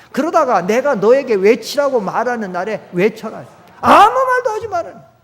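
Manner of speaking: shouted command. Acted. Preacher shouting God's order at the people. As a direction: bellow the order not to speak.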